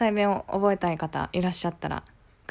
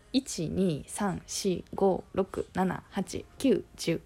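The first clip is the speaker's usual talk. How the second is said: attempted standard Japanese; slower than usual. Shown as a demonstration. Testing out standard Japanese counting, attempted standard accent. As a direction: separate numbers in tentative Tokyo-style accent. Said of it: "標準語は".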